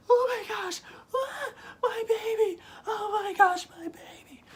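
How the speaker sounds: very high, hammed-up maternal shriek; screaming mom. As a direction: wail in falsetto like a horrified mother, fading at the end. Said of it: "She starts screaming. She's like".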